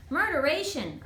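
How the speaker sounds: put-on girl jolted by sudden braking; startled exclamation. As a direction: blurt it as you hit the dash. Girl thrown into dashboard.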